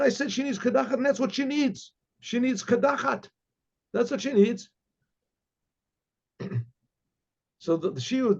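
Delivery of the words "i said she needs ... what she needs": put-on high insistent old rebbe.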